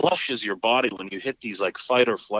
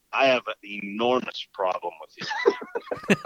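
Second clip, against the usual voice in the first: laughing mock threat; slower than usual. Mocking the man while laughing.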